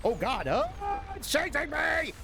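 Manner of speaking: high, panicky cry; scared horror game streamer. Real, not acted. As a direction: sound scared while being chased. Monster chasing him in game.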